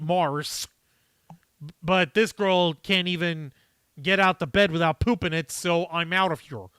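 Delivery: put-on barely-there half South African accent; a hint of a bad Musk impression; Elon Musk voice. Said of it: "Notice how I'm trying to do really bad Elon Musk voice?".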